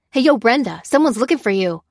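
casual hail, pitch lifted at the start; calling out. A narrator's reading. Worker hailing his fleeing colleague, calling out. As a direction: call after a passing colleague. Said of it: "he called as they raced by".

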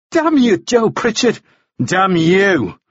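high, upset curse, falling a little; distressed anger. A narrator's reading. Woman cursing the man who won't go, distressed anger. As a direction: curse in a high voice, close to tears.

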